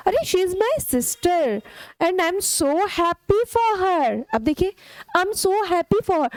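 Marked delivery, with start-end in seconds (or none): 0.1-4.2 expressive happy. Shown as a demonstration. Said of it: "you need to practice। आप बोलिए". 5.2-6.3 expressive happy. Shown as a demonstration. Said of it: "जिस तरीके के expressions".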